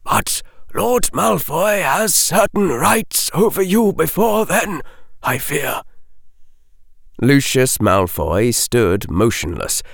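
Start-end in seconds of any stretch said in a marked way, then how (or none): 0.0-5.8 put-on higher, gentle old wizard voice; old wizard explaining the debt. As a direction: speak down kindly from the high bench.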